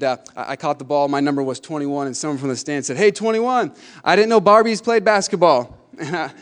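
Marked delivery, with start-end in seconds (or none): 3.0-5.8 raised, higher mocking call; imitated heckler. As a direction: jeer from the stands at a player. Heckler in the stands, acted out.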